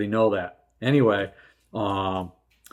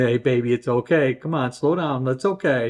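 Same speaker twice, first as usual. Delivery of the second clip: coaxing a scared horse; 3 semitones higher than usual. Retold or imitated. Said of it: "and just coaxing her".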